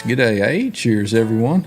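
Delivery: put-on light Australian accent; casual mock Australian greeting. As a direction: read it with a hint of Australian. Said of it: "said that with an Australian accent".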